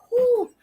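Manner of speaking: high exhaled "whew"; relieved whew. Retold or imitated. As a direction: let out mock relief. Relief once he is boarded.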